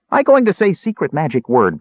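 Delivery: Bupu. A narrator's reading. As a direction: announce it importantly in a small creature's voice. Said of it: "Bupu stated".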